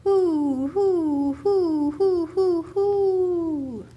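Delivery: loud, high hooting like a great horned owl; owl call. A narrator's reading. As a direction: hoot it out into the night woods. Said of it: "the sound of a great horned howl".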